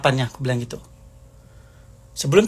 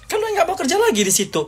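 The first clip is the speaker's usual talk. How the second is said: much higher, fast accusing burst; shrill accusation; faster than usual. Real, not acted. Accusing the former friend, high and fast. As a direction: fire the blame at her quickly.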